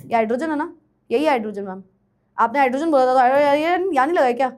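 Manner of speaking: mock whiny student. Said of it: "ये करते हो ना?".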